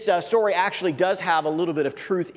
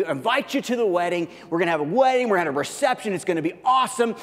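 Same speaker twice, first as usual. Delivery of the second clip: excited neighbor; 4 semitones higher than usual. Acted. Excited neighbor, acted dialogue.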